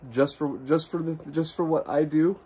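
real crying through the thanks. Real, not acted. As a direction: voice cracking with emotion. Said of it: "I'm sorry I get so emotional like a little baby".

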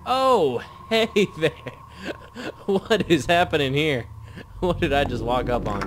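high, loud startled yell with a nervous laugh; startled scream. Real, not acted. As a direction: shriek as the monster jumps out at you. Jump scare in horror game.

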